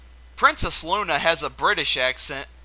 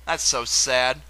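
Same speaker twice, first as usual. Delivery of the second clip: sad; 4 semitones lower, slower than usual. Real, not acted. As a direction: let the "sad" drop gently. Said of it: "That soon turned into sadness".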